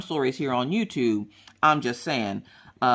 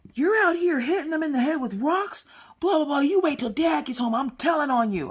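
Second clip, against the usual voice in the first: much higher, hissed big-sister threat; scolding whisper; 10 semitones higher than usual. Retold or imitated. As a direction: threaten to tell Dad under your breath.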